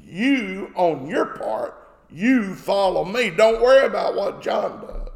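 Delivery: weighty stress on YOU, set apart by pauses; very emphatic. Retold or imitated. Jesus telling Peter to follow him, very emphatic. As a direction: press the command home on "You". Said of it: "And very emphatic".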